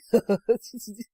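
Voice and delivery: short, breathy snicker; chuckle. A narrator's reading. Little Howard passing the room, mocking chuckle. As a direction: snicker at someone's misfortune. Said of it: "he chuckles".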